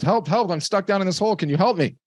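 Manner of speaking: high-pitched pleading yell; acted-out cry to a passer-by above; mock yell for help. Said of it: "he yells up to the priest".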